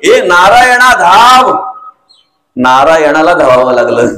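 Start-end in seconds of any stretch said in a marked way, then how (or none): 0.0-1.5 long drawn-out call for help, pitched higher; dying father calling out. Retold or imitated. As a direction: call out to नारायणा slowly, stretching every word. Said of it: "तसा त्याने मुलाला हाक मारली". (मुलाला दूरवरून हाक मारणारा वडील, लांब ओढलेला आवाज)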